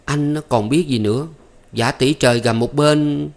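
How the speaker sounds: playful, teasing complaint; coquettish. Acted. Maid teasing her lover, coquettish complaint. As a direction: pout it out flirtatiously. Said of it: "Thắm nhõng nhảnh nói".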